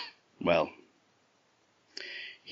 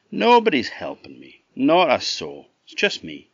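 higher, emphatic acted denial; protesting denial; 3 semitones higher, 5 dB louder than usual. Chuck denies to the Green Man having help, protesting. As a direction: insist on innocence, lightly hammed-up.

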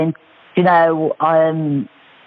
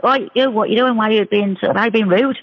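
mild mock shout, slightly raised pitch; retold shout; 4 semitones higher than usual. Woman calling out a man who walked past her, mild retold shout. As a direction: call him out without real volume. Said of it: "I shouted at him".

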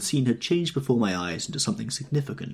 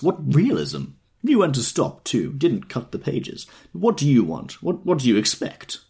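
put-on excited drunk, louder, pitch jumping up; tipsy owl-eyed man; 6 semitones higher, 4 dB louder than usual. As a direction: babble on like a delighted drunk. Drunk man marvels at books.

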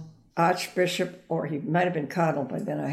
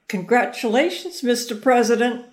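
higher, louder call across the street; yelled greeting; 6 semitones higher, 4 dB louder than usual. Retold or imitated. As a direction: call out to the passing car. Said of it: "And I just yelled out".

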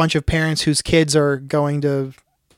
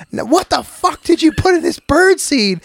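squawky bird voice; 12 semitones higher than usual. Retold or imitated. Friend retelling a movie gag as a high squawking bird.

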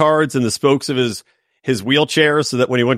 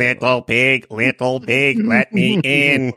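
big bad wolf; 3 semitones lower, slower than usual. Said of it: "big bad wolf quote".

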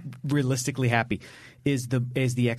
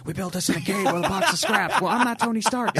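quoting Tony Stark; 7 semitones higher than usual. Retold or imitated. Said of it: "I'm, like, quoting in her ear".

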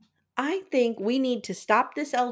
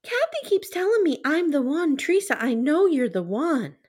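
manipulative sweet voice; 6 semitones higher than usual. Retold or imitated. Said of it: "Listen to what she said here".

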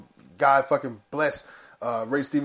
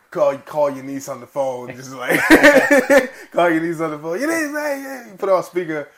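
high, loud and laughing; loud, laughing mock shout-out; laughing pretend phone call; 4 semitones higher, 9 dB louder than usual. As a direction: call out playfully through laughter. Laughing, mimes calling niece on speaker.

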